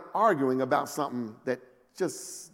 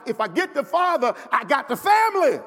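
scheming Satan; 10 semitones higher than usual. Acted. Preacher voicing Satan's scheme.

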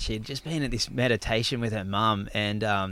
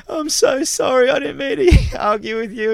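imitated emotional apology; 13 semitones higher, 7 dB louder than usual. Girlfriend apologising at the door, imitated high-pitched outpouring.

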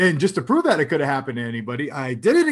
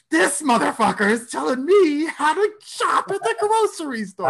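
much higher, seething inner fury; inner rage; 12 semitones higher than usual. Retold or imitated. Inner voice toward the scolding shopper, seething. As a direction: let the silent rage boil over. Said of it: "I am a roiling cauldron of rage".

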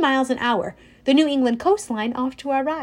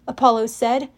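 usual speaking voice

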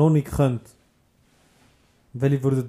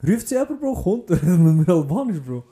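high, loud excited story; excited retelling; 7 semitones higher, 7 dB louder than usual. Real, not acted. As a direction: burst out with the news. (aufgeregt erzählt, höher und lauter)

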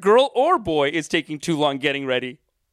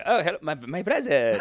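put-on Lebanese Canadian accent. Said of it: "I'm like".

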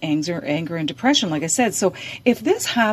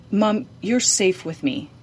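calm and reassuring; 2 semitones higher than usual. Shown as a demonstration. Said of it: "you say it very calmly".

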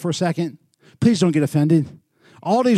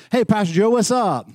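lightly imitated hail, pitched up; street guy's greeting; 4 semitones higher than usual. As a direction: repeat his friendly call-out. Greeting repeated for the audience.

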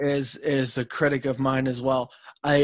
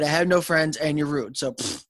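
dismissive pfft. Real, not acted. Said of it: "Yes, that's right".

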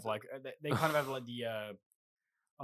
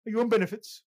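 high, louder teasing jab; jokingly affronted question; mock indignant; 9 semitones higher, 6 dB louder than usual.

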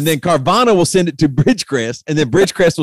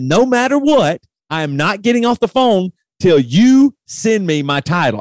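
pitched way up, mock-furious at the phone agent; retold exasperated outburst; 5 semitones higher than usual. To the Bridgecrest agent, a pitched-up exasperated outburst. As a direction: replay the moment you lost patience with customer service.

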